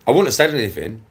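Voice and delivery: loud, worked-up opening of a rant; angry outburst. Real, not acted. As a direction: snap it out, fed up. Angry rant at rival video.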